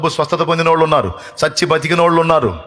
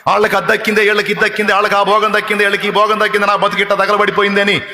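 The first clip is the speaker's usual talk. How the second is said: fiery preaching; 5 semitones higher than usual. Acted. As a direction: hammer each line home to the congregation. Preaches Mary's reply at full force.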